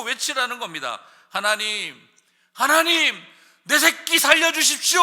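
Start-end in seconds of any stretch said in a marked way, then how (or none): 1.3-5.0 very loud, high, pleading cry; desperate shouted prayer. Shown as a demonstration. Parent crying out to God for a child, shouting. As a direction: scream for your child's life. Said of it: "하고 소리치라는 것입니다".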